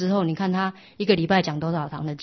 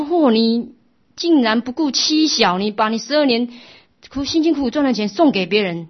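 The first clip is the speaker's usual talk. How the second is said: louder, higher outraged berating, slowing on the accusation; indignant wife; 5 semitones higher, 7 dB louder than usual. Acted. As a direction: tear into him for abandoning wife and child. Wife berates husband over lost gold.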